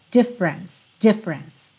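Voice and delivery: DIFFERENCE as "DIF-rence", stress first; two-syllable difference. Shown as a demonstration. Teacher drills the word for students, two syllables. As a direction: drop the middle E in DIFFERENCE. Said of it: "A sílaba tônica é a primeira".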